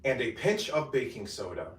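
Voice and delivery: bright, measured cooking-video narration; voiceover read. Acted. Creator reading steps for her cooking video, upbeat voiceover. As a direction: read each step for the recipe voiceover.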